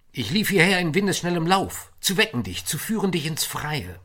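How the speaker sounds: excited call. Acted. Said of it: "rief er".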